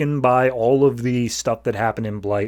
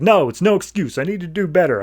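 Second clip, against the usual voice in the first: higher, mock-anguished protest; mildly heated self-blame, pitched up; retold frustrated outburst; 5 semitones higher than usual. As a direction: imitate someone berating himself. Retold Superman punches wall in self-blame.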